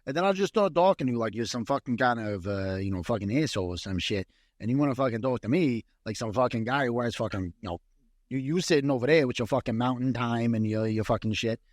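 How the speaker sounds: a hint of tough New York accent; lightly put-on New York accent. Threatening to talk down to co-host, light New York accent. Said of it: "let my New York accent through".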